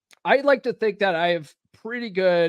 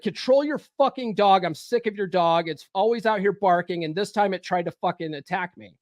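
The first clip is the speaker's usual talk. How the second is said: retold yelling. Man complaining to neighbor about her dog, half-hearted retold yell. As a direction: re-enact an angry rant at the neighbor. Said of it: "I'm yelling at her".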